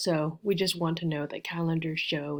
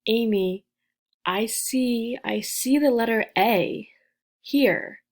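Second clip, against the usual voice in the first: student asking; 3 semitones higher than usual. Acted. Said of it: "you may be asking".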